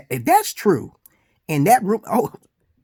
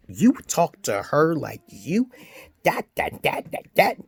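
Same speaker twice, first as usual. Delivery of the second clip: mock quote; 3 semitones higher, slower than usual. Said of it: "quote unquote".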